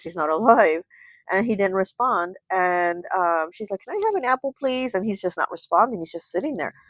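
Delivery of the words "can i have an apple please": put-on high, pleading little-girl voice; little girl asking. Little girl asking her brother for an apple, pleading. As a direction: pitch it up like a child asking politely.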